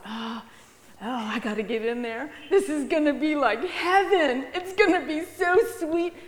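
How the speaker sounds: high, eager little mouse; a mouse gushing over the grain; excited mouse voice. Acted. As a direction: squeak it out like a greedy mouse. Mouse voiced in children's sermon.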